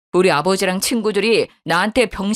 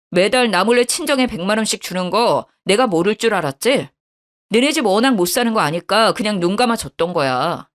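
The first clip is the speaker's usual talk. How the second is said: usual speaking voice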